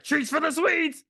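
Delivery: high, slow, sing-song granny voice; creepy granny. Retold or imitated. Granny serving the zombie family, high and slow. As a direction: drag it out like a sweet creepy grandma. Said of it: "she's like".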